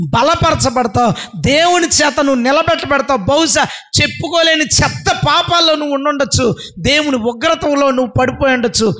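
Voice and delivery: rising, forceful assurance; rousing preaching. Real, not acted. Preacher promising the fallen they will stand, rousing preaching. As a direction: build up to lift the listener.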